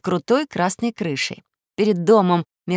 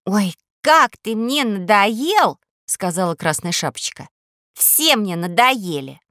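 little princess; 2 semitones higher, slower than usual. Acted. Princess annoyed.

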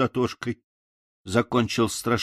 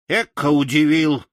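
a touch of a sassy crow; cheeky crow; 4 semitones higher, 5 dB louder than usual. Acted. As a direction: brush him off like a cheeky bird. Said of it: "сказала она". (нахальная ворона)

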